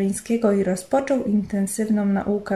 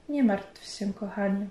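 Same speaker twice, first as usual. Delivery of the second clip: comforting. Acted. Husband consoles his tearful wife, gently reassuring. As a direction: gently soothe your crying wife. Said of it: "powiedział pocieszająco".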